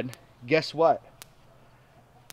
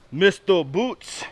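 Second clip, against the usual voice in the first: drawn out; 4 semitones higher, much slower than usual. Real, not acted. Drawn-out name for goat.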